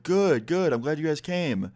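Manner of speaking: high-pitched, imitated host's greeting; retold hearty welcome. Host welcoming guests into his tent, hearty.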